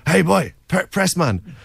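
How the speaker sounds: imitated Irishman's shout; retold shout. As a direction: call out as if hailing someone from a distance. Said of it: "an Irish accent shout at me".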